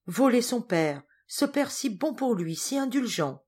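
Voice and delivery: high-pitched, mildly acted dismay; pained indignation. A narrator's reading. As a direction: lament the betrayal of a kind father. Geneviève indignée, pensant au père. (indignation peinée, voix plus aiguë)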